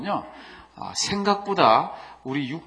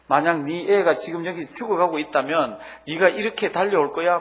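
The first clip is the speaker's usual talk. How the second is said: raised-voice mock outburst; half-full imitation of yelling; retold angry yell; 4 semitones higher, 6 dB louder than usual. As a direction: retell a father's angry challenge, pressing louder. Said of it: "막 고함을 지릅니다".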